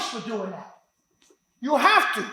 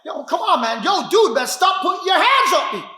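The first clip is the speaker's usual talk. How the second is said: rising mock warning; 4 semitones higher than usual. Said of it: "Yo, he put two hands".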